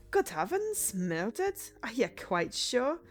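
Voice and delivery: startled detective in an attempted Scottish accent. Detective hears of a murder, startled attempted Scottish accent. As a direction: start high, then question in lightly Scottish tones. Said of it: "He's gotta be Scottish".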